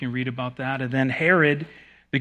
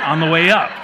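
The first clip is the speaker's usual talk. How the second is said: laughing; 4 semitones higher, 9 dB louder, faster than usual. Real, not acted. Joking aside about those who are wrong.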